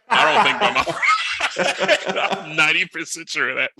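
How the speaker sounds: high voice breaking into laughter; laughing. Real, not acted. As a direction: laugh through the line. Laughing while accusing his mom.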